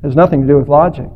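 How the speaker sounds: low, fading reply; drowning scorpion. Acted. Drowning scorpion explaining the sting to the turtle, low and fading. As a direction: let the words sink away softly at the end. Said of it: "The drowning scorpion replied".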